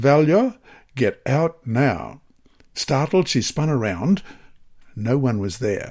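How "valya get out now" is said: slow, friendly yet firm. A narrator reads an unseen voice tapping valya's shoulder, firm but friendly. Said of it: "address her with a firm but friendly voice".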